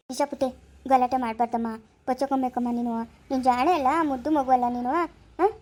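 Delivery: gentle, praising reassurance; coaxing. Acted. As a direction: sweet-talk a sick little one. Coaxing a sick child.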